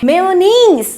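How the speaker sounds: मेयोनीज said as "may-o-neez"; correct pronunciation. Shown as a demonstration. Teacher tells class the correct way. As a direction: clear teacher model of मेयोनीज. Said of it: "इसका सही pronunciation क्या है".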